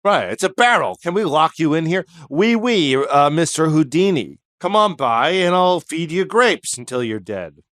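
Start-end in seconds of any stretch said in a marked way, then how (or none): 1.0-7.6 lightly voiced French host; coaxing invitation in a put-on French accent; mock French accent. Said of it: "I'd see a Frenchman go".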